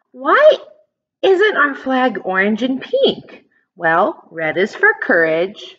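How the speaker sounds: usual speaking voice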